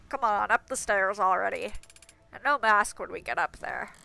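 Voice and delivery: nasal gatekeeper voice. Acted. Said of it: "plugging my nose when I do his voice".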